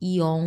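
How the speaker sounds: ইয়ং moving from i into a round-lipped ong. Shown as a demonstration. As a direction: round the mouth after the i in ইয়ং. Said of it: "এরকম". (ই-এর পর মুখ গোল করে ইয়ং)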